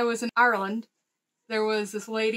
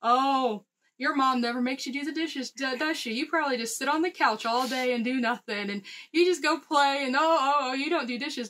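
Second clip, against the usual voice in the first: mock teasing. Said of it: "she teased me like crazy".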